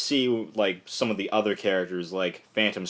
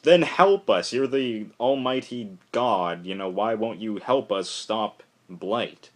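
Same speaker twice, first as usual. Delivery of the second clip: mock plea. Constantine demanding that God help them stop Blight. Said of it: "Constantine is just like".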